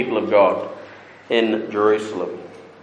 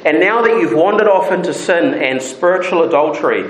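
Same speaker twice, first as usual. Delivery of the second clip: pleading God; 6 semitones higher than usual. Acted. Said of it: "He's saying".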